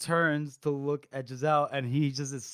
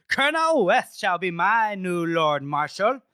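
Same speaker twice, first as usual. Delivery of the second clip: slow, lightly voiced royal decree; a hint of a drunk king's proclamation; 5 dB louder than usual. Drunk prince naming a marshal to stunned council, lightly voiced decree. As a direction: drag it out like a drunk king announcing. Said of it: "he does this".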